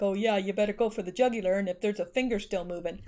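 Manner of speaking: quick, offhand mock imitation; hurried mimicking in disbelief; mocking quote. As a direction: toss it off fast as a scornful imitation. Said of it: "Nobody talks like that".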